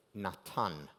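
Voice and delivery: "Natan" said nah-TAHN, both a's open as in father; "Natan" in Hebrew, not English Nathan, no th sound, stress on the last syllable; "Natan" with a clean t and open ah vowels, as a Hebrew speaker says it; Hebrew pronunciation. Shown as a demonstration. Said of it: "The word to give in Hebrew".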